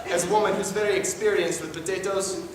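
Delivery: high, loud doting mom voice; overexcited mother. Acted. Mother character again.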